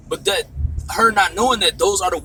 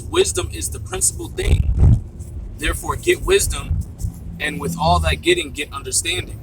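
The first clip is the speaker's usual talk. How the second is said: emphatic scripture reading; 3 semitones higher than usual. Shown as a demonstration. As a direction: declaim the verse with weight. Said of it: "It says, it says".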